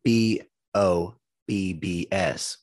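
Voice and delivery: very slow letter-by-letter mock mom; mom spelling it out. The neighbor mom spelling the search, very slow mock voice. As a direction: spell each letter out painfully slowly. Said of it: "And the mom goes".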